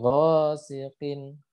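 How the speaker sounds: Ghasiqin chanted very slowly with a back-of-throat q; true deep qaf. Shown as a demonstration. Teacher corrects the k slip, deep drawn-out qaf. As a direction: stretch Ghasiqin, placing the q far back. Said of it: "qaf gitu ya".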